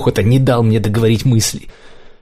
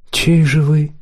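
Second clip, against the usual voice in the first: higher, slow probing question; 5 semitones higher, slower than usual. A narrator's reading. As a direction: quiz him slowly. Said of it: "расспрашивал меня".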